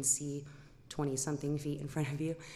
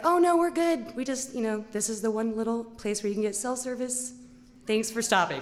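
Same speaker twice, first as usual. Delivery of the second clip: chirpy people at the roadside; 5 semitones higher, 6 dB louder than usual. Retold or imitated. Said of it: "they're like".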